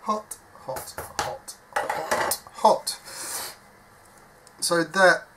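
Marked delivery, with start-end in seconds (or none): 0.0-3.0 breathy hissed hot hot, high pitched yelps; real pain from burning your fingertips; burnt fingers. Real, not acted.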